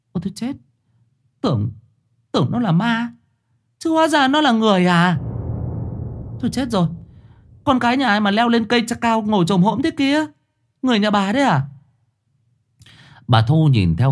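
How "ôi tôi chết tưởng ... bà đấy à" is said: high, alarmed woman's voice; panicked exclamation. A narrator's reading. Thơm panicking at the girl in the tree. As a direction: gasp it out in fright. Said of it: "Cô hốt hoảng".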